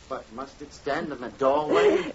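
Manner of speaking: a husband's exasperated shout; irritated outburst. Acted. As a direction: snap it out in annoyance. Husband trips over water jug.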